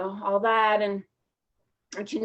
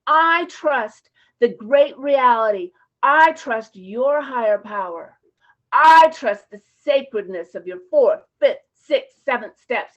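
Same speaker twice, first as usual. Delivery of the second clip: reassuring advice; 4 dB louder than usual. Retold or imitated. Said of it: "what I tell them is this".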